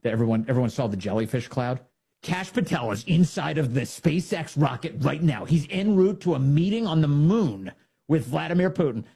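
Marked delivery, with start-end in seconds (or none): 2.2-9.1 mock news report. Imagined absurd news report.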